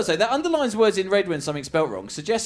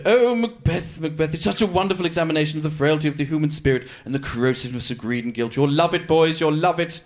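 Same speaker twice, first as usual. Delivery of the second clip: gushing posh mum. Retold or imitated. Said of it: "she went".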